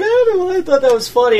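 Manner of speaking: high-pitched, said through laughter; imitating laughing friend. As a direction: giggle through the words, playing the amused friend. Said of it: "like, just laughing about it".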